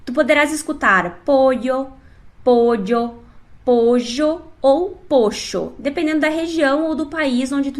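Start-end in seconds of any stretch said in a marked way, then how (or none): 1.2-1.9 pollo with an LH sound; one regional variant; Spanish LL. Shown as a demonstration. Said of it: "vou citá-las usando o exemplo de pódio". 2.4-3.2 pollo with a dj sound; Spanish LL. Shown as a demonstration. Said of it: "vou citá-las usando o exemplo de pódio". 3.6-5.7 pollo with zh, then pocho with sh, slowly; Spanish LL. Shown as a demonstration. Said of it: "vou citá-las usando o exemplo de pódio".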